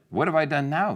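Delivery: high, loud, put-upon question; exasperated protest. Acted. David replying to his scolding brother, exasperated. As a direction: protest like a blamed little brother.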